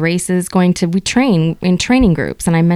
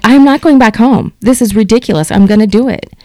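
raised, louder, fed-up vow; retold angry outburst; 3 semitones higher, 5 dB louder than usual. Runner at the track, fed up with the gadget, angry half-shout. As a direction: half-shout it, furious at the failed sync. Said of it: "pissed off".

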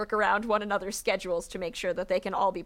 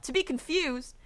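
lightly voiced villain; 10 semitones higher than usual. A narrator's reading. Olaf voiced to a confused elder.

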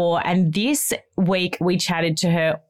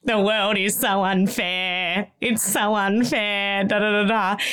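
mock whining; slower than usual. Mocking own whining when sick.

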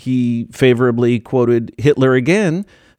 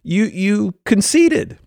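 outraged mock rant; 9 semitones higher, slower than usual. Mocking outraged Trump supporters.

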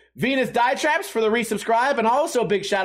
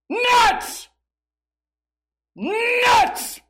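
vendor's call; 13 semitones higher than usual. Retold or imitated. Peanut vendor calling to the crowd, a high booming shout. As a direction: call it out across the whole stadium. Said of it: "And he would scream".

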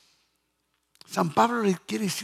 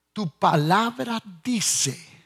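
praying; slower than usual. Shown as a demonstration. Preacher showing how to pray on God's word, slow building prayer. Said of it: "Yo cuando estoy orando".

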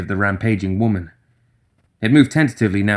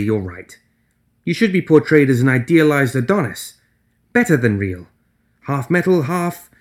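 higher, chipper cheering up; Nelly's voice; 4 semitones higher than usual. Acted. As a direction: brighten the mood gently.

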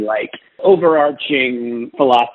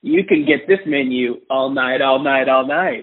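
McConaughey impression. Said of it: "With his gravelly voice".

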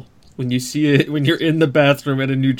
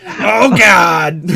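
laughing; 3 semitones higher, 5 dB louder than usual. Real, not acted. Reacts to Bobcat Goldthwait.

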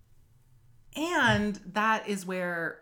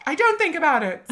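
retold shout; 8 semitones higher, 6 dB louder than usual. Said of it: "who shouted out".

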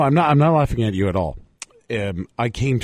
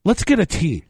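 higher, impassioned fan voice; rally the crowd; 7 semitones higher than usual. Retold or imitated. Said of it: "get people interested and say".

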